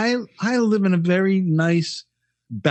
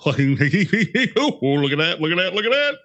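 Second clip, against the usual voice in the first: imitated older gawker. Host mimics people of a certain age, exaggerated marveling. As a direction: draw it out, mocking an elder who marvels aloud.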